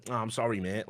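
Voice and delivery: quietly mocking the troll's sorry, mate; mock meek apology. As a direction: imitate a caught troll mumbling sorry.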